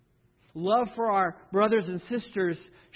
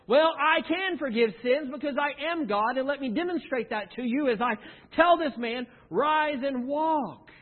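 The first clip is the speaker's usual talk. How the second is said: rising louder and higher, the last words slowed right down; proclaiming Jesus; 7 semitones higher, 4 dB louder than usual. Acted. Jesus to the doubting crowd, proclaiming louder and higher. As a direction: declare it with full authority, then draw out rise and walk.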